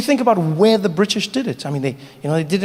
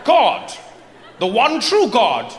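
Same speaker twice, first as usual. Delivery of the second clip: pompous; slower than usual. Acted. British officer.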